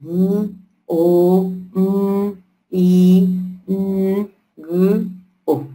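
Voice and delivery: "M, O, M, I, N, G, O" each sound said separately with pauses; segmenting domingo aloud sound by sound; sounds one by one. Shown as a demonstration. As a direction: break domingo into single sounds, M O M I N G O, one at a time. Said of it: "tú me dirás".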